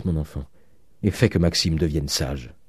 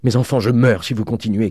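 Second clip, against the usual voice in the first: high, raised-voice plea; anguished cry; 5 semitones higher, 4 dB louder than usual. A narrator's reading. Old father begging his quarrelling daughters to stop, crying out. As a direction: cry out as if struck down. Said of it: "cria le vieillard en tombant sur son lit".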